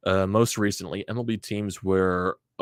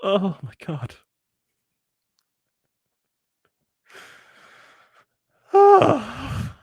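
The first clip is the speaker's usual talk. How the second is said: despairing; 8 dB louder, much slower than usual. Real, not acted. Fan crushed by loss.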